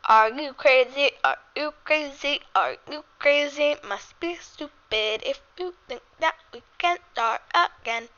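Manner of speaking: flat robotic singing. Pretend. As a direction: sing it like a robot. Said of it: "sing that in, like, a robot voice".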